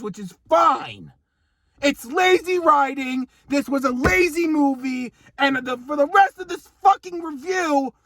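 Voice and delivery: heated, half-shouted complaining; angry rant. Real, not acted. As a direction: vent about lazy writing. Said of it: "how angry I am about this".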